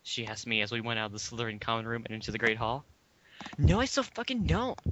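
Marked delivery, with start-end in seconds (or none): 3.6-4.8 loud high shout. A narrator's reading. Girl shouting her denial at her friend. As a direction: yell the denial, mock outraged. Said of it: "I shouted".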